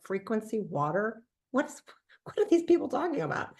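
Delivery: re-enacted baffled disbelief; mock bafflement. Retold bafflement at product term.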